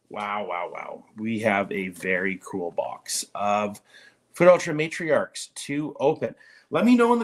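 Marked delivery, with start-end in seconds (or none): 0.1-1.0 awed whisper. Real, not acted. Awed at box contents.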